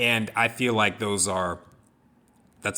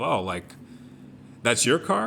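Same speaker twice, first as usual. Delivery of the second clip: mock surprised customer; 3 semitones higher than usual. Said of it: "he made a comment along the lines of".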